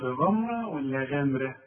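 first غمرة thick gh, second غمرة thin; heavy versus light. Shown as a demonstration. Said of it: "لا، غاء". (غمرة مفخمة ثم غمرة مرققة)

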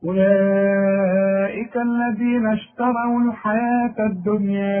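slow, melodic chanted recitation; Quranic recitation. Shown as a demonstration. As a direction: recite steadily with tajwid. Recites the passage.

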